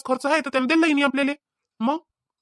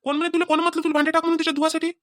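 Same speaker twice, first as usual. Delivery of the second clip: higher-pitched, exasperated disbelief; mildly scolding, pitch raised throughout; incredulous questioning; 5 semitones higher than usual. Acted. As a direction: question it as if it makes no sense. Husband disbelieves what wife did.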